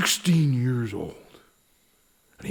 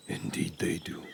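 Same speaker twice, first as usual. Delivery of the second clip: weary whisper; 6 semitones lower, 12 dB quieter than usual. Acted. Sheriff repeats wearily.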